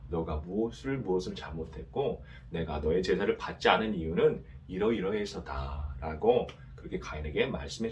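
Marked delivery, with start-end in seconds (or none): 0.1-6.0 soft, gentle teaching voice as God; kindly explaining. Pretend. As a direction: patiently explain to Cain, softer. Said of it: "친절하게 가르쳐 주셨겠죠". (가인에게 친절하게 가르쳐 주시는 하나님, 부드럽게)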